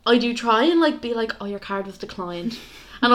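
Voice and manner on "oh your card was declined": very soft, low-key murmur; quiet, discreet. Retold or imitated. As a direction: break bad news under your breath. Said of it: "I'll say it, like, quietly".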